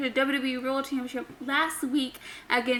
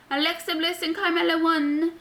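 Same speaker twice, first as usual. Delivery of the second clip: odd presenter voice; 4 semitones higher than usual. Real, not acted. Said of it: "why I'm talking like this".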